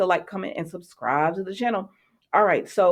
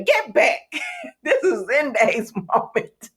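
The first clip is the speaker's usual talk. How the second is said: mock shoo; 6 semitones higher, slower than usual. Real, not acted. Mocking R J stealing scene.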